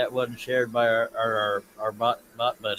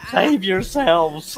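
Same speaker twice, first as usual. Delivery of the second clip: mock warning; 7 semitones higher, 7 dB louder, much slower than usual. Mock alarm at wife's stick.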